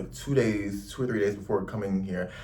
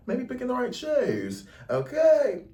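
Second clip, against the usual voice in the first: sing-song advice; 14 semitones higher, slower than usual. Real, not acted. Playful nudge to viewers.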